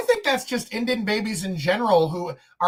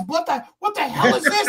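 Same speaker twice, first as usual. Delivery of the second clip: higher, laughing, mock bafflement; laughing disbelief; 5 semitones higher than usual. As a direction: chuckle through the confused question.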